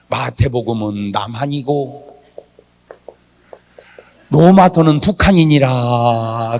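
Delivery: slow, low, solemn pronouncement; lightly voiced divine declaration, drawn out; God's answer. (하나님 음성처럼 느리고 낮게 선포)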